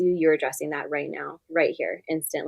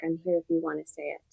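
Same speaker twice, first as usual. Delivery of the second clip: gentle and slightly hushed; 6 dB quieter, faster than usual. Shown as a demonstration. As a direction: offer it gently, without pushing. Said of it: "very gently be like".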